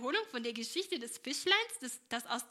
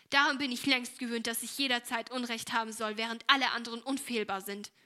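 bitter; 6 dB louder than usual. Acted. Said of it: "erwiderte Esther bitter".

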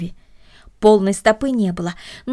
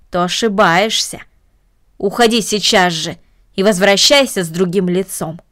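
stern aunt; 3 dB louder than usual. Acted. Aunt sends girl away.

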